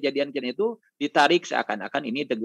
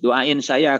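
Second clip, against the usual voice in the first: louder, pleading on the verge of tears; near tears; 4 semitones lower, 4 dB louder than usual. Retold or imitated. Pilgrim begs his boss, close to tears. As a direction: beg the boss, half crying. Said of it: "eh, mau nangis".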